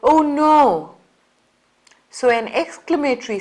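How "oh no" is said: higher, louder dismayed Oh no; alarmed Oh no; oh no exclamation. Shown as a demonstration. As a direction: react as if something went wrong. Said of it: "or you say".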